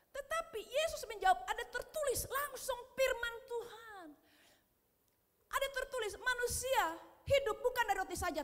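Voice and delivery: high, ringing preacher's delivery; declaimed scripture. Acted. Preacher quoting Jesus' answer to the devil, declaimed scripture.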